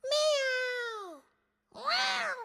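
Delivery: rising sung cat meows. Pretend. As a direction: meow like the cat. Meowing like the cat Delilah.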